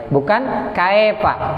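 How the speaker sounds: "kaifa" said as kaepa with an e sound; "kaifa" with e instead of i, slow; wrong kaefa. Shown as a demonstration. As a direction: flatten "kaifa" into kae-pa, the wrong way. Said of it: "kai, bukan e".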